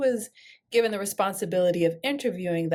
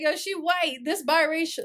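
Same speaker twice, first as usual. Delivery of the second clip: imitating the crowd; 6 semitones higher than usual. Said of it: "Everybody was like".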